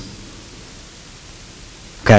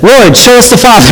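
higher, eager disciple asking; Philip asking; 10 semitones higher than usual. Acted. Philip asking Jesus, higher eager plea. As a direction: Philip pleading high to see the Father. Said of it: "Philip said".

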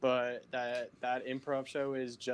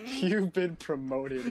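laughing; 6 semitones higher, 5 dB louder, much slower than usual. Acted. Announcing John's mock promotion.

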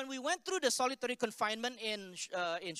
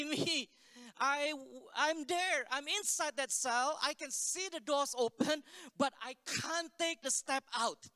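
imitating an anguished woman, higher, slowing down; retold tearful confession; 5 semitones higher than usual. Girl confesses to pastor she is trapped inside, imitated anguish. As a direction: plead it as a trapped woman, voice lifted. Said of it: "she was crying. She was, like, bawling".

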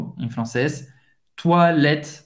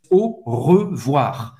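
lower, slow syllable-by-syllable French; slow model phrase; 4 semitones lower, much slower than usual. Shown as a demonstration. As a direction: separate each syllable for learners. Teacher models phrase slowly first. (francês devagar, sílaba por sílaba)

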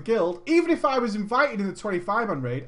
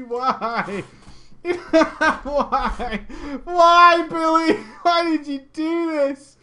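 mock lament; 5 semitones higher, much slower than usual.

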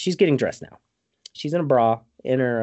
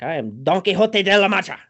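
higher, louder mock-heroic proclamation; Don Quixote; 9 semitones higher, 5 dB louder than usual. Imitating knight introducing himself after attacking, mock-grand. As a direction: announce yourself grandly.

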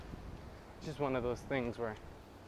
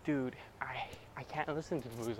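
whispered quote; 3 semitones lower, 6 dB quieter than usual. Retold or imitated. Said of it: "they're all like".

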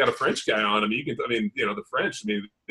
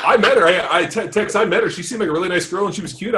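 much higher, giggly voice; laughing while talking; 9 semitones higher than usual. Real, not acted. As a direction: talk through the giggles. Laughing while defending matchmaking.

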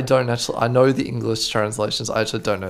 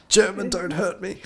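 mock-scared; 8 semitones higher than usual. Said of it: "Like when I'm like".

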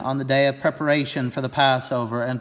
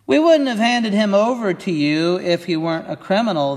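sharp, higher retort; a defensive comeback pitched up high; 6 semitones higher, 4 dB louder than usual. Acted. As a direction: snap back defensively. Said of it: "they retorted".

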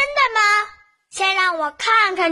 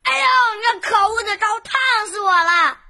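ouch stressed on 呦, falling off; boy burnt by hot porridge; a touch of pained crying out; mild burnt yelp; 3 semitones higher, faster than usual. Acted. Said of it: "烫得他大叫".

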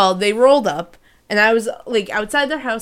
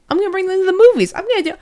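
eager gush; 6 semitones higher, faster than usual. Retold or imitated. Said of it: "I was like".

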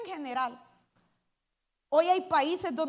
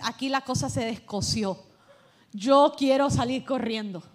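louder hammed-up panic about wanting to run; mock panic; 4 semitones lower, 6 dB louder than usual. Pastor mimicking a guest scared by the dancing, mock panic. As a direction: play a spooked visitor ready to bolt. Visitor alarmed by King David dancing.

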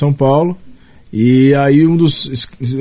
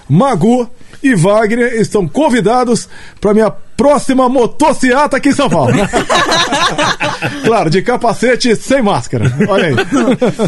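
Bolsonaro impression; 6 semitones higher than usual. Invites to motociata as president.

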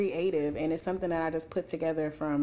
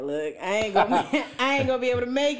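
laughing; 3 semitones higher, 3 dB louder, faster than usual. Retold or imitated. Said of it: "I would've called me and been like".

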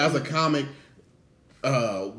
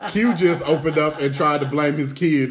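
loud, playful mock-announcer call; mock announcement; 3 semitones higher, 6 dB louder than usual. Co-host teases the dad to the audience, mock announcement. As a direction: announce it to the room, teasing.

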